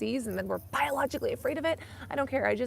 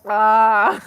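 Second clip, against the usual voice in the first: emotional gasp; 13 dB louder than usual. Real, not acted. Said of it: "Oh, I'm getting emotional".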